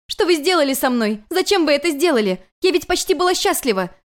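high, loud accusing cry; rising to a pained shriek; a student crying out at her teacher; exclaiming. Acted. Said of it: "воскликнула Юнь-Юнь".

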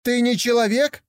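put-on high, eager young tiger voice; a curious cub wondering aloud; naive young tiger. Young tiger asks yak.

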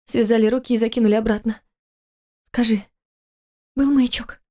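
высокий женский голос, мягко возражает; жена успокаивает мужа; жена оправдывает. Acted. Голос Киры. (высоко, мягко)

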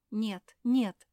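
громкое, высокое «Нет, нет!»; резко возрази, не сдаваясь; протестуя. Acted. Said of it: "запротестовала Жози". (Жози громко протестует против того, чтобы бросить Мафи)

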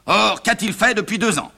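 high-pitched accusing question; indignant demand. Acted. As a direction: demand an account of him. Father accuses son.

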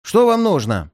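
сухо и недовольно; отрежь незваного гостя; нелюбезно. A narrator's reading. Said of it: "далеко не любезным тоном". (нелюбезный тон)

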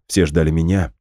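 ordinary delivery, nothing marked

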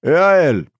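put-on high, loud bleating old-man cry. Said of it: "проблеял старпёр".

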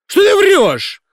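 high shrieking disbelief; shrill accusation. A narrator's reading. Singer screaming at the injured director, accusing. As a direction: scream that she is lying.

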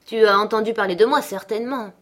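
mildly browbeating father, fast; insistent questioning. Acted. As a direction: press the boy for an answer. Heathcliff interrogates his frightened son.

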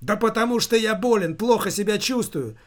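high, agitated retort; shouting back. A narrator's reading. Son explains his illness to mother, shouting back. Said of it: "в ответ закричал он".

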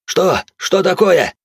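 frightened question. A narrator's reading. Браут в страхе спрашивает Седого, что случилось. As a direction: ask in sudden panic. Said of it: "испуганно спросил".

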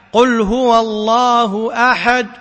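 slow, with lips rounded silently after the final د of أحد; ishmam demo. Shown as a demonstration. Teacher reciting slowly to students to show ishmam on the final د of أحد. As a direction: round the lips without a sound at the end of أحد. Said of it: "هذا يسمى الإشمام".

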